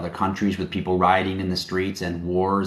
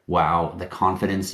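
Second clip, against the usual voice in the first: mock impressed; slower than usual. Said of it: "Yes, I do have confidence".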